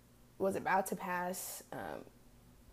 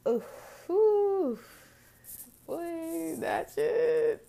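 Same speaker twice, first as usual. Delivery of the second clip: overwhelmed exhale; 10 semitones higher, 4 dB louder, much slower than usual. Real, not acted. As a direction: let out a real, overwhelmed breath. Overwhelmed after recalling mother's grief.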